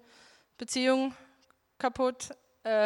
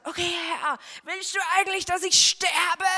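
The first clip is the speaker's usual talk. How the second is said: high, loud, slowing at the end; pleading with God in the night, shouting high; desperate shout; 7 semitones higher, 5 dB louder than usual. Retold or imitated. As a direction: cry out in despair, dragging the last words. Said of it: "irgendwann hab ich so geschrien".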